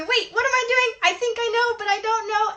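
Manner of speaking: playful confused inner voice; confused brain voice. Retold or imitated. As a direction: voice the muddled brain, mock-confused. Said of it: "our brain are going".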